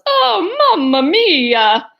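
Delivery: loud cartoon yell, starting high; hammed-up exclamation with drawn-out vowels; Mario. Mario yelling at Yoshi over too much sauce, exasperated. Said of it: "he yells".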